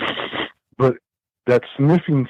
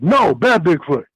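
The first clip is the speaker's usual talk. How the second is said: mild mock yell, higher and slow; retold scolding yell; 4 semitones higher, slower than usual. Camper telling off Bigfoot at the tent, mild retold yell. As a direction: scold it like a misbehaving animal, raised pitch. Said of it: "I yelled at the Bigfoot".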